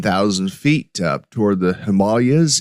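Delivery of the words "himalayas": "Himalayas" pronounced him-AH-lee-as; Indian pronunciation. Shown as a demonstration. Podcaster telling of his India trip, "Himalayas" said the local way, stressed AH. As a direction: say "Himalayas" with a stressed AH second syllable. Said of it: "that is how you say it".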